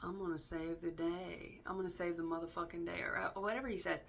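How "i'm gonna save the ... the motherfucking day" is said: a light, slowed, hushed Nicolas Cage take; Nicolas Cage impression. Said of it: "I'm already doing it in his accent".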